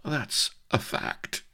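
high, slow, pained whimper; drawn-out agonised agreement. A narrator's reading. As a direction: whimper it out feebly. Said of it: "whimpered the Colonel".

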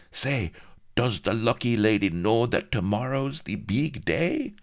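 high, eager question; lightly voiced greaseball. A narrator's reading. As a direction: ask eagerly. Greaseball asks the boss.

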